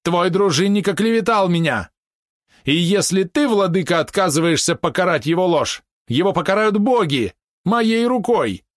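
high, loud and furious, slowing at the end; outraged accusation. Acted. Polot accuses the retainer before the prince, high and furious. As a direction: threaten with righteous fury.

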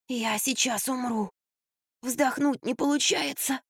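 high, slow strained gasp; wheezing. A narrator's reading. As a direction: squeeze the words out, short of breath. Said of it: "прохрипела Марфа". (медленно, сдавленно, будто нечем дышать)

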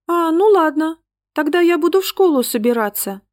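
put-on high, easy little-girl voice; a calm girl's matter-of-fact reply; calmly, like a child. A narrator's reading. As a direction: shrug it off in a businesslike way. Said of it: "спокойно сказала Ангелинка".

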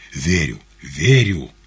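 weary sigh through the words; slow, resigned sighing. A narrator's reading. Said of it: "вздохнув".

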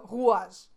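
"rouge" said as "rou-age"; regional pronunciation. Shown as a demonstration. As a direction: stretch "rouge" into roo-ahzh. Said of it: "ils vont pas dire ça".

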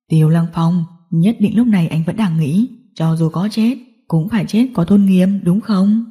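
low, lightly voiced gangster; mocking boss; taunting villain. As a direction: toy with the captive, low voice.

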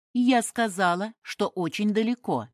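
stubborn. A narrator's reading. Woman repeats her evasive answer, stubbornly. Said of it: "упрямо повторила женщина".

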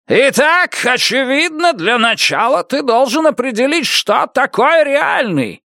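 shouting back. Acted. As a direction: holler over the boy. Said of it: "закричал и бутылочник".

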